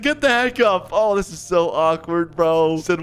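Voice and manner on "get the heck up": high-pitched indignant command; mock a cross boyfriend ordering, pitched up; acted angry order. Bryce orders Megan off the bed, angry.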